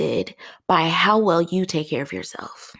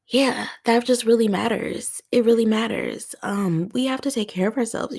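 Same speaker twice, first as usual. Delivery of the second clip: high, tearful earnest voice; crying; 6 semitones higher than usual. Real, not acted. Host urging listeners that self-care matters, crying. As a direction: squeeze the words out through real tears. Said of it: "I was not expecting to cry".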